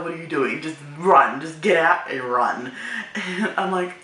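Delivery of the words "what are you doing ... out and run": loud, low, emphatic warning; retold urging. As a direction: act out a friend urging escape. Friend urging escape by text.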